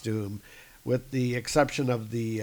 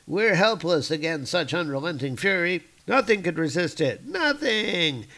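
hammed-up troll despair; 5 semitones higher than usual.

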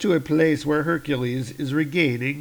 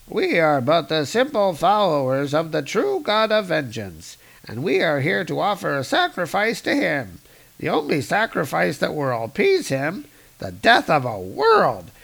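higher, solemn zealot; alien cultist voice; 4 semitones higher than usual. Acted. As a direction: preach the sacrifice gravely. Alien explains sacrifice.

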